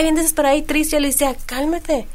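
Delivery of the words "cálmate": softer, soothing retold advice; calm a friend down gently; gentle reassurance. Host telling her desperate friend to wait, softly reassuring.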